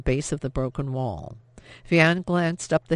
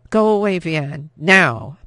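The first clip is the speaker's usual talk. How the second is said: urgent shout; 8 dB louder, slower than usual. A narrator's reading. Urgent hiding sister warns.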